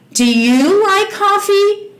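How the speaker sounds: slow, carefully spaced question; slow teacher demo. Shown as a demonstration. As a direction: model the question slowly. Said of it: "E a pergunta". (pergunta modelada bem devagar)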